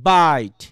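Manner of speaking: "বাইট" with a long falling AI glide; diphthong demonstration. Shown as a demonstration. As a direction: draw out the AI in "বাইট". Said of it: "তখন কি হবে?". ("বাইট", লম্বা আই টেনে)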